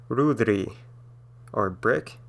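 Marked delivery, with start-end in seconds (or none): 0.1-0.7 "Rudri" with a hard trilled R at the start. Shown as a demonstration. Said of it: "but just a hard trilled R".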